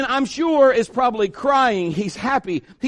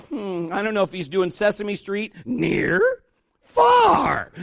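mock Sesame Street; slower than usual. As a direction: play it like a kids' show host. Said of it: "on three times he's like".

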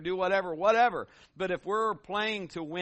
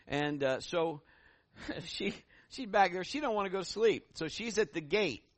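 ordinary talk

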